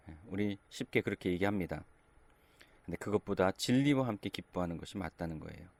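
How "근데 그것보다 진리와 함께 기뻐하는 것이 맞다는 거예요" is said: ordinary talk, nothing marked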